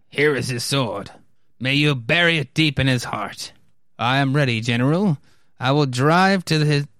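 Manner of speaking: lightly declaimed, resolute officer; a hint of a stately military hero; heroic officers.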